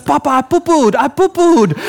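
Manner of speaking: high, proud toddler imitation; excited little boy. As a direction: imitate a child announcing his achievement. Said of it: "he's so excited".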